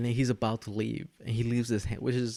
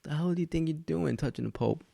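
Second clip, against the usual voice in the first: mock outraged pope; 6 semitones higher than usual. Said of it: "he's like".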